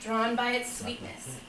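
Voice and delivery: measured picture-book reading; story narration. Acted. Father reading a fable to children, measured storytelling. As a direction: read it like a gentle fable, phrase by phrase.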